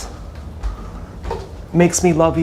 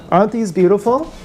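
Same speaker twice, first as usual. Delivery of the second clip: showing off shoes; 4 semitones higher than usual. Acted.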